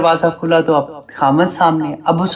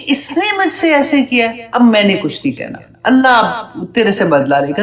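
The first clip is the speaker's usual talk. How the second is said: resentful grumble; 3 semitones higher than usual. Retold or imitated. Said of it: "कई दफा हम गुस्से में".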